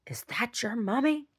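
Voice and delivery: put-on baby talk to dog. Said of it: "I'm like".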